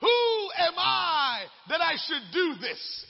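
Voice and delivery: slow, loud doubting cry; voicing Moses. Preacher voicing Moses doubting his calling, slow and loud. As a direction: plead it slowly, doubting yourself. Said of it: "is what Moses said".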